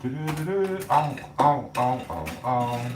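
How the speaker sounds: quick yelps of pain from a burn; ow, ow, as the hot pan bites; real pain. Real, not acted. Burns himself while cooking.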